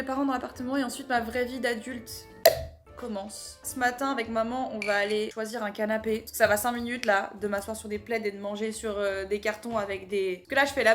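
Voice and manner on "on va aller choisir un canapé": normal talking voice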